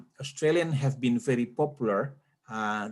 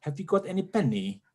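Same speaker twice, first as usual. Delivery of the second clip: higher, imitated British English; British accent; 4 semitones higher than usual. Comparing with American speech, higher mock British accent. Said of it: "British is like".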